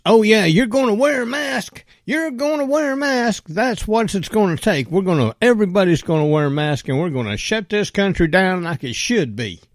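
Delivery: high, sneering imitation of Biden; mocking Biden. Mocking Biden's mask speech, high and sneering. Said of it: "he goes".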